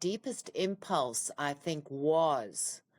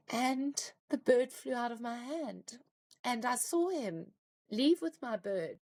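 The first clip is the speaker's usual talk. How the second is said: higher voice on the edge of crying; fighting tears; 4 semitones higher than usual. Real, not acted. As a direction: hold back real tears while telling it. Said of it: "now I'm gonna cry".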